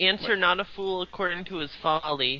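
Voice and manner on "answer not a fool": ordinary delivery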